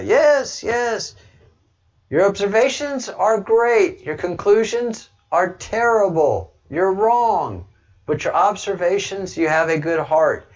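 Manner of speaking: hammed-up Indian accent impression of a mentor; bad Indian accent. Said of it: "I do a horrible Indian accent".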